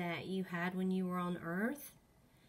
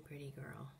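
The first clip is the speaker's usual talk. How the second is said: talking to a ghost; 5 semitones lower, 12 dB quieter than usual. Real, not acted. Whispering to a ghost.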